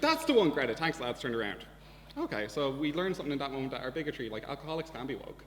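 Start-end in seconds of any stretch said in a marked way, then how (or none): 0.0-1.6 put-on drunk man's loud delight. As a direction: bellow it like a thrilled drunk on a train. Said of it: "he was like".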